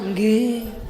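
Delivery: lightly imitated dutiful assent; a drawn-out, compliant "nggih"; obedient Javanese wife.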